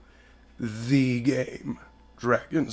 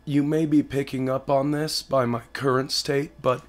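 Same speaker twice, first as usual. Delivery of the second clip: hoarse sick voice. Real, not acted. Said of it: "I sound like shit right now".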